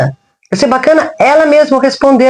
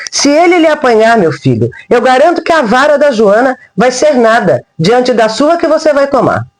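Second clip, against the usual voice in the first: put-on old woman calling a hiding boy into the woods; speaking loudly; 3 semitones higher than usual. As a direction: warn him loud enough to reach the woods. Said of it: "ergui no ar e falei alto".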